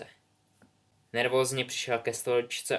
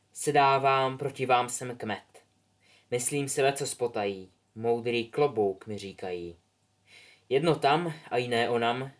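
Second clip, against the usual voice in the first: sorting hat song. Acted. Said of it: "klobouk začal mluvit".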